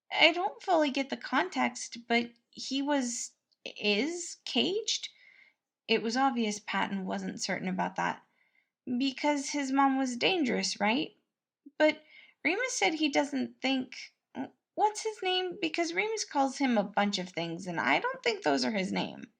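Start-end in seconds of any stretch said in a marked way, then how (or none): 0.1-5.1 a kindly cook fussing over the prince; higher voice for the caring cook; cheerful cook Patton. A narrator's reading. 8.9-19.3 a kindly cook fussing over the prince; higher voice for the caring cook; cheerful cook Patton. A narrator's reading.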